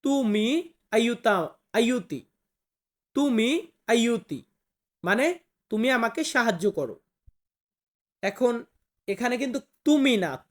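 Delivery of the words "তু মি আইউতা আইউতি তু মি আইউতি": slow teaching read. Shown as a demonstration. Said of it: "এটাকে আমরা Italian ভাষাতে বলবো".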